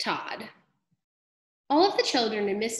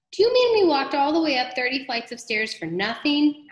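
high, louder outraged question; indignant disbelief; 6 semitones higher, 5 dB louder than usual. A narrator's reading. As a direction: complain in disbelief at wasted effort, as a story robber. Robber indignant after climbing stairs.

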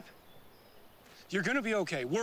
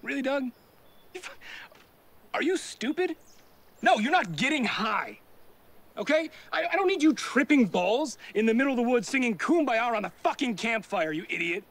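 louder, exasperated telling-off; angry scolding; 3 semitones higher, 3 dB louder than usual. Acted. Friend scolds Doug for wanting to get high, angry and loud. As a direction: chew him out like a fed-up parent.

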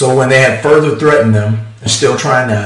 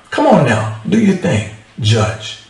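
sarcastic; 2 semitones higher than usual. Retold or imitated. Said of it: "he's being sarcastic".

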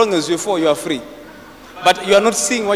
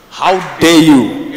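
angry angel; 3 semitones lower, 7 dB louder, much slower than usual. Retold or imitated. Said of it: "My angel now gets angry".

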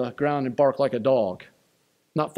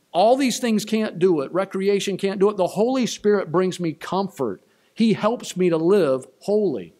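preaching climax; 5 semitones higher, 3 dB louder than usual. Real, not acted.

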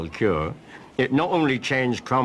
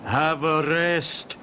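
higher, mock-doting fuss; fussing over the parrot; 7 semitones higher, slower than usual. Keeper mimicking how everyone dotes on the parrot. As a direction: coo over her like a pampered patient. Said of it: "when she's a bit poorly, it's".

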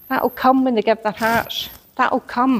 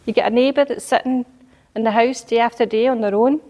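ordinary delivery

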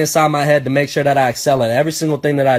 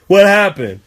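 alarmed neighbor; 3 semitones higher, 4 dB louder than usual. Retold or imitated. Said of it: "Neighbors coming out and shit".

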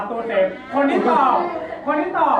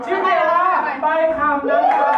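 showy announcement; 5 semitones higher than usual. Real, not acted. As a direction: announce the game like a show host. Host announces the game.

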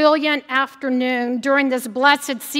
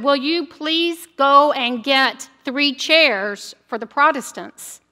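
slow, over-careful, a bit louder; a little louder; slower than usual. Retold or imitated. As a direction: spell it out slowly to be heard. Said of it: "a little bit louder, said".

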